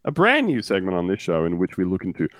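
announcer voice. Acted. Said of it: "about to play a little thing for you".

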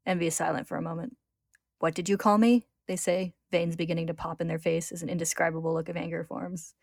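measured read-aloud with lightly voiced dialogue; story narration. A narrator's reading. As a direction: read the tale clearly, lifting the quoted lines.

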